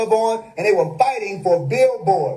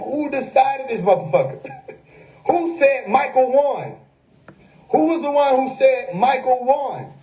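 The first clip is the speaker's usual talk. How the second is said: retold screaming; 4 semitones higher than usual. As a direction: imitate a streamer demanding answers. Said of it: "was screaming at the screen".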